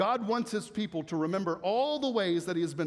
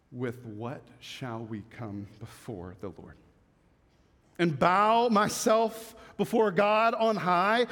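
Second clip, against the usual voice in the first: scripture reading. Acted. Preacher reading Micah six aloud, building pleading reading. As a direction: read it as the people's anxious pleading.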